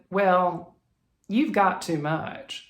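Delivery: lightly voiced Southern shop clerk; slow, drawn-out touch of Southern; Southern accent. Shop woman warning a customer about her fabric, mild Southern accent. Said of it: "I don't know why I'm instantly going into a Southern voice".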